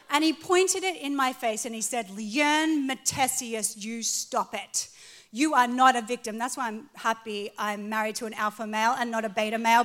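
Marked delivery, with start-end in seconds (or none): 2.1-6.4 slow, deliberate scolding, louder on "not"; a mild stern father telling her off; stern husband. Retold or imitated.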